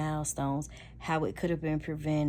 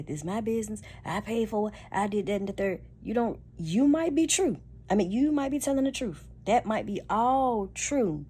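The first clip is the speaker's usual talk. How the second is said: mock defensive partner; 5 semitones higher than usual. Partner defending his business choices, a lightly voiced indignant tone. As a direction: play the partner digging in about his business. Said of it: "You say".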